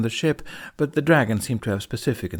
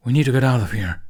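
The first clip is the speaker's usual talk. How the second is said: loud, angry snarl; 6 dB louder, faster than usual. Acted. Toothless urging Hiccup to flee, loud snarl. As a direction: growl it at him, fed up. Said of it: "Toothless snarled".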